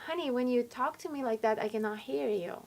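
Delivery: put-on soft, patient explanation to a child; calm mother. Mother answering her frustrated six-year-old, calm and soft. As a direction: gently settle a worked-up little one. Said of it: "what I say is like".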